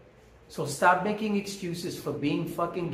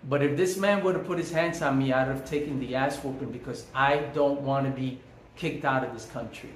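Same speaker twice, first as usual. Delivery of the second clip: usual speaking voice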